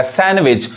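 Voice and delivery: सैंडविच with no d, "san-wich"; सैंडविच as "SAN-vich"; silent D. Shown as a demonstration. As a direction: say सैंडविच dropping the d. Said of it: "डी silent है".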